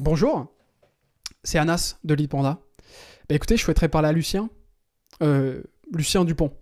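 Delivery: "écoutez" line rattled off, "Lucien Dupont" slowed; assured professional caller with easy familiarity; confident phone voice. Shown as a demonstration. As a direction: sound like a close contact of Lucien. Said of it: "De la répéter avec la bonne intonation".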